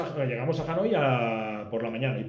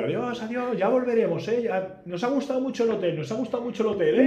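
haciéndose el famoso; 9 semitones higher, 6 dB louder than usual. Retold or imitated. Él finge ser famoso.

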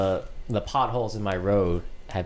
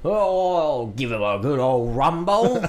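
high, loud hammy British voice; cartoonish British bloke; British accent; 5 semitones higher, 5 dB louder than usual. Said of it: "it's a British bro".

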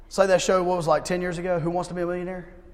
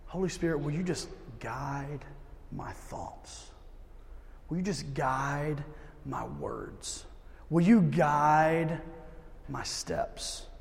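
hushed prayer; 5 dB quieter, slower than usual. Shown as a demonstration. Models a quiet prayer at work.

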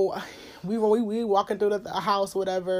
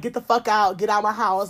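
retold yelling; 6 dB louder than usual. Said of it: "I go berserk".

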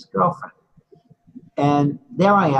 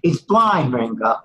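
amused, raised voice between laughs; laughing. Real, not acted. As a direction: chuckle through the punchline. Laughs while retelling his blunt reply.

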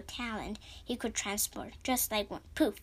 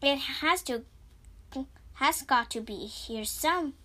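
frantic searching; 4 semitones higher, 6 dB louder than usual. A narrator's reading. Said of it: "Diego muttered to himself".

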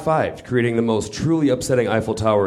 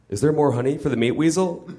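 Pooh asking; 5 semitones higher than usual. Acted. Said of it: "Pooh asked".

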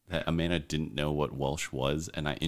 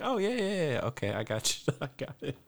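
mock confident local; 8 semitones higher, faster than usual. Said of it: "They're like".

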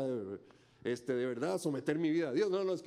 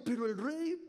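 dismissive aside; 5 semitones higher than usual. Acted. Believers brushing off the king.

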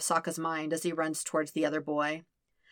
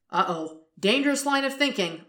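mock panic; 8 semitones higher than usual. Sokka panics at his own thought.

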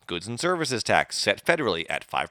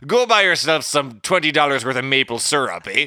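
louder hammed-up Canadian accent turning Irish; Irish-sounding Canadian accent; 4 semitones higher, 7 dB louder than usual. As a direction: play a Canadian who keeps sliding into an Irish accent. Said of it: "You're sounding really Irish".

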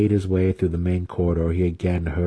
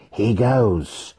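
calm; 3 semitones higher than usual. A narrator's reading. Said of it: "she said calmly".

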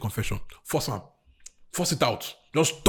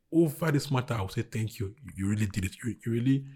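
closing prayer. Acted. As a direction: pray gently over each person's need.

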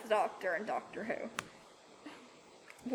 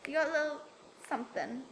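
higher put-on voice, halting false starts; attempted film quote; 4 semitones higher, 4 dB quieter, much faster than usual. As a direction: try the character line and fumble it. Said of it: "oh, I can't do it".

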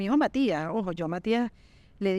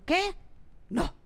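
stressed panic; 2 semitones higher than usual. Retold or imitated. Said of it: "Qué estrés".

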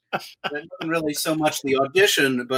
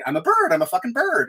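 higher-pitched, thrilled realization; mildly elated; 8 semitones higher than usual. Retold or imitated. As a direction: marvel at your own new identity. Acts out his elated thought on casting.

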